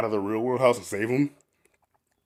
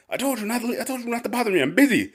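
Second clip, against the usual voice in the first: grumpy boss; 12 semitones higher than usual. Retold or imitated. Boss yelling at employee.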